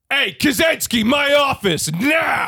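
shouting police chief; angry boss. Acted. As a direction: bark for him into the office. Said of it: "you're the chief".

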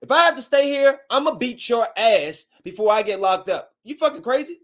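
re-enacted high, heated threat; angry threat. Acted threat to airline agent.

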